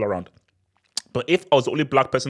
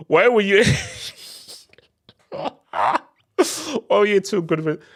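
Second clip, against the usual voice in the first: high, loud mock Southern US drawl, broken by a laugh; a laughing impression in a Southern US accent; 9 semitones higher, 3 dB louder than usual. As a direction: quote them in an exaggerated Southern US accent. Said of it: "in a very southern accent".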